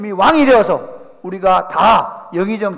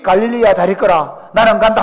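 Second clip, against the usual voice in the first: louder, ringing farewell; farewell to Galilee; 7 dB louder than usual. Acted. Jesus leaving Galilee, loud ringing farewell. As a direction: call out a last goodbye to a homeland.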